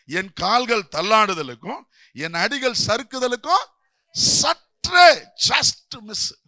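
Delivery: builds to a slow shout on the last words; voicing the psalmist, rising to a slow, shouted "just miss"; proclaimed verse. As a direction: preach the verse, then cry out "சற்றே just miss". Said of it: "ஆசாப்பா தான் சொல்றாரு".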